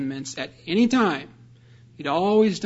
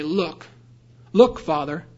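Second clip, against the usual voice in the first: indignant son; 4 dB louder than usual. Retold or imitated. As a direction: Look pushed out louder the second time. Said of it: "he begins by saying".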